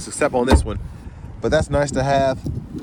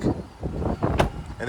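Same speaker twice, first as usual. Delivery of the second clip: wind on mic; 6 dB quieter than usual. Real, not acted. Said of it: "I apologize for this wind".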